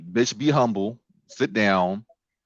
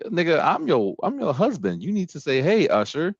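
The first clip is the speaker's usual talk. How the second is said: mock offended husband; 6 semitones higher than usual. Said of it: "'Cause, like".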